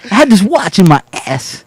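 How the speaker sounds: slow, halting mock cadence; lightly spaced pauses; Christopher Walken impression. Continuing the watch speech, light impression. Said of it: "you gotta get his cadence".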